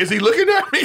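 high, laughing mock worry; imitating a nervous guy, laughing. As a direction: squeak it out through a laugh.

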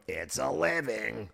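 slow, low, weary mutter; deadpan animal voice. Retold or imitated. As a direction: sigh it like a tired worker. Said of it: "And he'd go".

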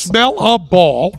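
"Smell a ball" said slowly, each word separate; staccato. Shown as a demonstration. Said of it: "one word at a time".

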